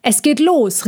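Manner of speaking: eager horse cry; excited cry. Acted. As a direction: cry out that it's starting. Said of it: "rief Pontus da".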